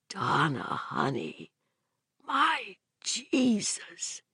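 hushed and shaken; soft. A narrator's reading. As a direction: say it softly, stunned. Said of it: "he said softly".

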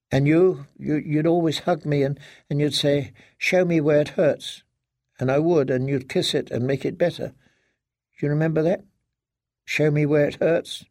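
lightly voiced, wistful little-girl tone; childlike daughter. Daughter reminding father of childhood boo-boos, wistful.

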